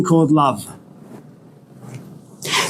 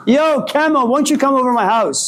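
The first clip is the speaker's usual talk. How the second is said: casual invitation; 7 semitones higher than usual. A narrator's reading. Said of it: "texts him perhaps and says".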